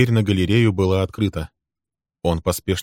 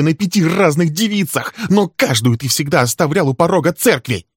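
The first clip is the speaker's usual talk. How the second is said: high, loud, raging accusations; much higher, louder screaming rant; furious tirade; 10 semitones higher, 6 dB louder than usual. Acted. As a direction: unload years of grievance at him. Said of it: "Её глаза метали молнии".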